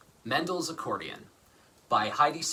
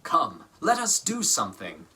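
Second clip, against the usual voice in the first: Mendel urging; 4 dB louder than usual. Acted. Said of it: "said Mendel".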